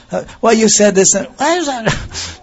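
high, strained voice near tears, slowing at the end; choked-up crying speech. Shown as a demonstration. Teacher acting out someone choking up with tears. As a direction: let the words catch in a tightening throat. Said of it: "It's, it goes like this".

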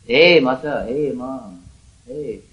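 understated cry for mother; like a lost child crying. Pretend. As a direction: imitate a lost child calling mother, trailing away. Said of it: "crying for his mother".

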